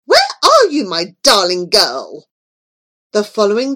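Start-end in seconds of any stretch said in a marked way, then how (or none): 0.0-2.3 calling out. Acted. Queen calling for her darling girl, calling out.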